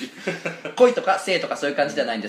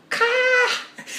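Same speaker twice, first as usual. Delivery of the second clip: slow, higher drawn-out かー; drawn-out kaa; 3 dB louder than usual. Shown as a demonstration. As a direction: stretch the かー out slowly. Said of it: "ごめん、ちょっと".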